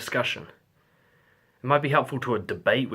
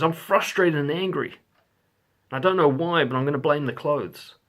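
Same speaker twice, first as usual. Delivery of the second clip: frustrated partner; 3 semitones higher, 5 dB louder than usual. Retold or imitated. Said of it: "what they're really saying is".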